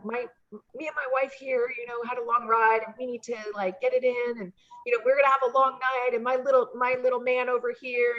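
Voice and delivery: lightly voiced proud husband showing off his wife; hammed-up husband. To the hotel clerk, lightly hammed-up husband voice. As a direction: play the cheesy husband, only a little put on. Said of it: "we're totally hamming it up".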